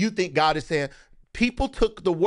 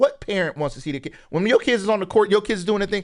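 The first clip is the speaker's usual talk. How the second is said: usual speaking voice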